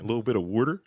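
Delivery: put-on "water" as "wooder" in Philadelphia accent. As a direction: say "water" like a Philly local, wooder. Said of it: "it's such a good accent".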